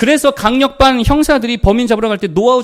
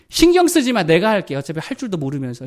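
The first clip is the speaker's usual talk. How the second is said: dismissive wife. Retold or imitated. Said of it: "이게 무시하는 말".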